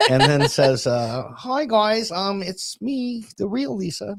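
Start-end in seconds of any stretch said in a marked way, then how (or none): 1.4-4.2 clumsy put-on voice, very high, slow, drawn-out. Pretending Lisa is back from vacation, the speaker does imitating Lisa. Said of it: "I'm terrible at that".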